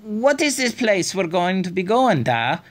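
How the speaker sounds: put-on high young girl's voice, curious; girl asking. A narrator's reading. Daughter asking her father where they are going. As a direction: ask Da like a wondering child. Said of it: "Fiona asked".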